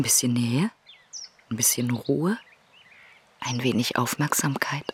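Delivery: soft whispered answer. Acted. Woman answering the doctor about closeness, whispered. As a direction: whisper the last words tenderly. Intimate garden moment.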